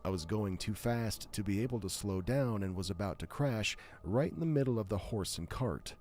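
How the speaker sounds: smooth, steady reading voice; reading a glitch story to the stream, smooth narration. Acted. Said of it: "when I start reading, it sounds different".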